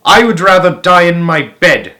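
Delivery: put-on old woman shouting her refusal. A narrator's reading. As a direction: grandmother shouting defiantly. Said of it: "shouted Grandma Josephine".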